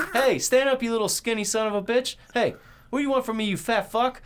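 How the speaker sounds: high-pitched, loud mock heckling; trash-talking Abraham Lincoln. Retelling a skit where Lincoln talks shit, mock trash talk. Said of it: "it was Abraham Lincoln talking shit".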